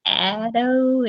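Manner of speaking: "Addo" with a broad open ah, like "Ah-do". Shown as a demonstration. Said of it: "I have to remember it's that".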